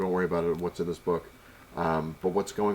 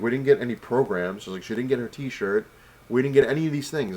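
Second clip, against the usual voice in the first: annoyed; 2 semitones higher, 3 dB louder than usual. Retold or imitated. Retelling a complaint to convention staff about missing items, annoyed. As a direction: replay your annoyance, leaning on what's missing. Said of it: "I was getting really annoyed".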